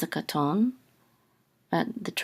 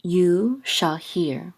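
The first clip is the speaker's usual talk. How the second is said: slow rendering; much slower than usual. Shown as a demonstration. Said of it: "this is saying".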